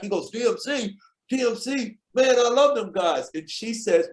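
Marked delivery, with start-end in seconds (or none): 0.3-3.3 higher-pitched imitation of a thrilled fan; delighted surprise, retold. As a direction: act out happy disbelief at the name. Acts out a musician's delighted reaction.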